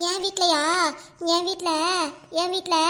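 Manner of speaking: hesitant, with long pauses between phrases; drawn-out stalling. Acted. Friend asked what food is at home, stalling. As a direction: stall and drag out each phrase. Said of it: "இழுத்துக்கிட்டே இருக்க".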